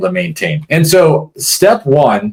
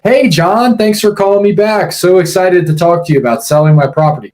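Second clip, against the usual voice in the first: lightly high, gushing seller voice; a hint of a sugary, over-friendly caller; mock eager seller; 6 semitones higher than usual. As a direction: play a seller who is way too excited. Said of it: "No, they don't do that".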